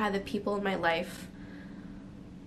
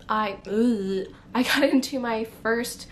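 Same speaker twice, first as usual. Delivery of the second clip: embarrassed laugh; 4 dB louder than usual. Real, not acted. Embarrassed restart about first relationship.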